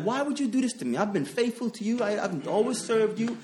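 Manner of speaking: a man on his sofa complaining to God, pained and pleading; self-pitying lament. Retold or imitated. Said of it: "I was feeling like".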